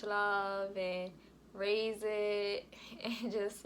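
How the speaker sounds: slow, laugh breaking into tears; starting to cry. Real, not acted. Telling viewers about her baby, breaking into real tears. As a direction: voice cracking as the tears come. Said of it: "I'm about to cry, y'all".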